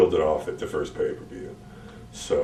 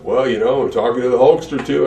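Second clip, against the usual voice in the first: Vince impression; 8 semitones higher, 6 dB louder than usual. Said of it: "Vince impersonation".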